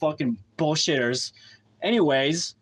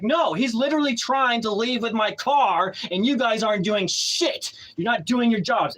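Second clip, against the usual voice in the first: higher, heated retold complaint; indignant protest; 5 semitones higher than usual. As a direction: re-enact pleading your case angrily to police.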